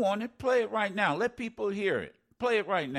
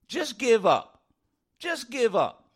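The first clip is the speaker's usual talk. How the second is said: mocking Greene; 2 semitones higher, 4 dB louder than usual. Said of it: "The Ukrainian people ought to just give up".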